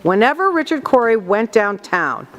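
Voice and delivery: "Whenever Richard Cory went downtown" with a natural lift early, falling to the end; subtle emphasis. Retold or imitated. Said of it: "subtle ways that she used emphasis".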